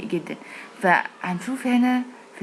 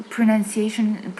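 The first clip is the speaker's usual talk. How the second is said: pronunciation drawn out very slowly; stretched slow word; 2 semitones higher, 4 dB louder, much slower than usual. Shown as a demonstration. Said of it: "هنلاحظ". (نطق كلمة pronunciation ببطء شديد)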